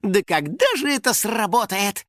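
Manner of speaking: weary, plaintive character voice; exasperated sigh. A narrator's reading. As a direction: sigh it out in frustration. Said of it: "вздохнул финик".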